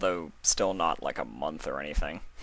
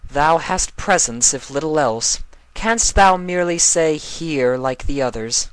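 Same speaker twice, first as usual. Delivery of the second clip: high, loud archaic royal voice, unimpressed; Luna, dry and regal; 9 semitones higher, 11 dB louder than usual. Acted. Luna scolding Sombra for his showy entrance.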